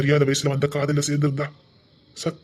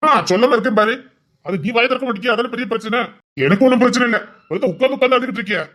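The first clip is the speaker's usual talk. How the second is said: exasperated outburst; 6 semitones higher, 5 dB louder than usual. Acted. Husband scolds loudly.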